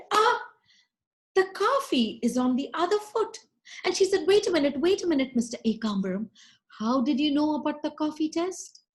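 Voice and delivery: high, bright laughing-off voice; cheerful cockroach girl. Acted. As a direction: shrug it off high and playful. Meenakshi laughs it off.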